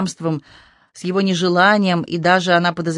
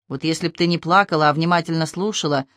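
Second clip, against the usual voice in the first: didactic. Acted. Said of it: "назидательно заметил Матвей".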